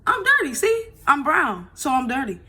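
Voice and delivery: put-on a little girl patiently spelling it out; imitating her little daughter. Mother retells daughter's explanation.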